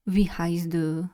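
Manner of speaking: deep German voice. Shown as a demonstration. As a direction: drop the voice a little and slow down. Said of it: "I go very deep".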